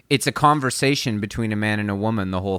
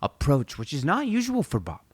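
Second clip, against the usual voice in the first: higher, softer, earnest retold hype; pumped producer; 4 semitones higher, 4 dB quieter than usual. Retelling the producer praising the singer's approach, pumped. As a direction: play a keyed-up record man without raising the volume. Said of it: "he's so pumped".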